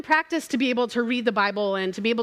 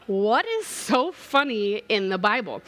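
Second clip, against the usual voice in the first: puzzled coworker; 3 semitones lower, slower than usual. Retold or imitated. Confused coworkers asking.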